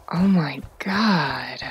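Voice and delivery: slow, soft crying whisper; whispered shock. Real, not acted. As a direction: breathe it out in dismay.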